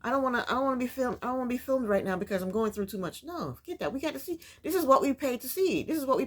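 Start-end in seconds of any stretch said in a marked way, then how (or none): 0.0-3.2 fast, mocking whiny protest; mocking whine. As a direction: rattle it off like a mock complaint. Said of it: "change your mind and say".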